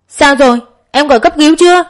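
urgent panic. A narrator's reading. Brother panics over injured mother.

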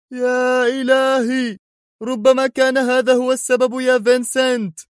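the penny drops; excited realization. Acted. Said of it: "ثم هتف في انفعال".

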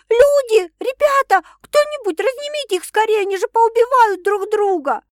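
высоко и громко, в панике зовя людей; кричать о помощи, срываясь на крик; панический зов на помощь. A narrator's reading. Зовёт на помощь во время драки. (героиня зовёт коллег разнять драку, высоким паническим криком)

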